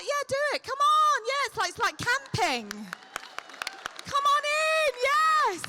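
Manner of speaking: high, bright beckoning; host urging latecomers to come sit up front; eager coaxing. Acted. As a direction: wave them in enthusiastically.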